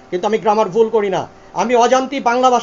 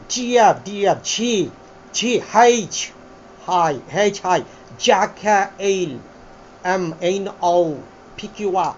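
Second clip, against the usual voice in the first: demonstrated British-American letter names, lower in pitch; British-American accent; 4 semitones lower, much slower than usual. Shown as a demonstration. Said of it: "যেমন British আমেরিকানরা খুব দ্রুত English বলে".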